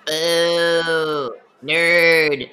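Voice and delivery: loud jeering boo. Acted. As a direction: heckle from the stands. Booing at the arena fighter.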